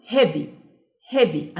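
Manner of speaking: "heavy" with E and A as one sound; vowels run together. Shown as a demonstration. Teacher showing learners that EA is one sound, vowels blended in "heavy". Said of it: "ما نطقتش ال E لوحدها وال A لوحدها".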